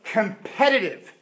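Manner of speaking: proclaimed loud with long pauses; the Lord announcing himself, pausing between words. Acted. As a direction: declare each "I am" with force, fading on the last. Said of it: "He says".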